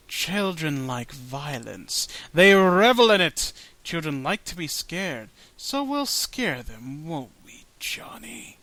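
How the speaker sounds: menacing storybook villain; creepy villain voice. Acted. Villain speaks to the boy.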